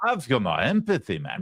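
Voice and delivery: lightly imitated Jamaican lilt; mock Jamaican accent. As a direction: mimic a politician's Jamaican-sounding accent. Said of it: "I think it's Jamaican".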